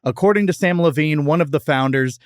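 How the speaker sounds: scripted history read, neatly phrased; podcast fact read. Acted. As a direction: read it out like a prepared segment. Reads the prepared history segment.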